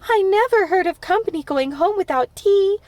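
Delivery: high, loud plaintive lament; mourning. A narrator's reading. Anne mourning to Diana that guests never leave before tea, plaintive. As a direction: lament it like a wounded hostess. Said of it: "she mourned".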